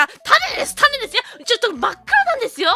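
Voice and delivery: high, loud insistent denials; stubborn shopkeeper. Retold or imitated. Shopkeeper insists to the cousin it is a seed, high and loud. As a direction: hammer home "it's a seed" like a stubborn shopkeeper.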